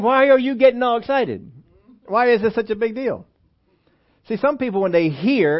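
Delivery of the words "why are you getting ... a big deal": mock bewilderment. Mocking puzzled churchgoers' critics.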